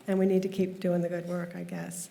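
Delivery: ordinary talk, nothing marked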